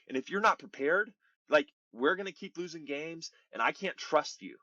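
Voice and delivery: imitating a heated manager, pitch lifting; retold locker-room telling-off, mildly worked up; upset manager. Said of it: "like, he's kinda hot".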